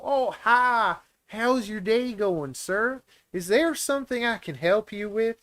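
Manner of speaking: high, bright-eyed American shop greeting; polite American accent. Retold or imitated. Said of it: "it's just like, everywhere I go".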